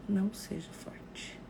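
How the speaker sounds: "Não seja forte" said slowly and softly; slow it right down and soften; slow gentle advice. Shown as a demonstration. Showing viewers what to say while hugging a mourner, slowly and softly. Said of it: "diga pra ela".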